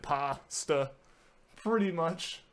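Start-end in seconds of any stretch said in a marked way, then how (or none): 0.0-0.9 Pasta in two separated syllables, pa-sta; demonstrated pronunciation. Shown as a demonstration. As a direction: sound out Pasta slowly, with no R. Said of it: "That's pretty much how I said it".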